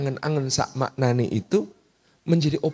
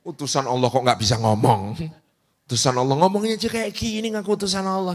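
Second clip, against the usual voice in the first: mocking online bully. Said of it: "gitu kan".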